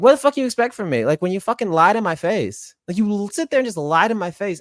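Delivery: angry. Real, not acted. Angry rant at being lied to.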